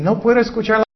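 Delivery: a light mock whine about not hearing God; complaining believer. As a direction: mimic someone who says they can't hear God. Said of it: "muchas personas dicen".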